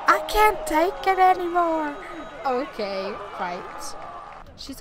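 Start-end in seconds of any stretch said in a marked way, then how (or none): 0.1-2.0 loud, high wail of defeat; exasperated outburst. Acted. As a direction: cry it out at breaking point. Outburst after game over.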